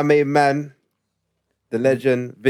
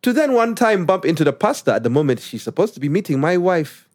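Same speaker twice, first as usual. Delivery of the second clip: put-on Ugandan accent; 5 semitones higher than usual. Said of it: "when I read it in Ugandan accent".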